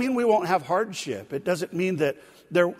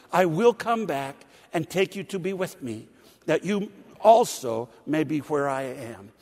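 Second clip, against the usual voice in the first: scripture reading. Acted. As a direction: read the promise out to the church. Reads scripture aloud to congregation.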